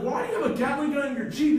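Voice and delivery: a hammed-up frantic shout in the car chase; panicked question. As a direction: fire it off in frantic disbelief. Isaac yells back during chase.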